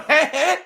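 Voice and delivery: put-on nudge-nudge "heh, heh"; sarcastic chuckle. Shown as a demonstration. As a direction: fake a knowing laugh to flag a joke. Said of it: "know how to be fucking sarcastic".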